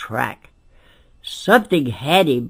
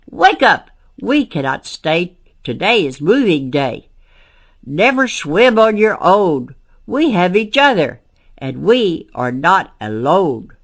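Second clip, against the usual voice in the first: excited wake-up call; 3 semitones higher, 3 dB louder than usual. Acted. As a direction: burst in shouting the news, then steady them. Turtle calls out to family.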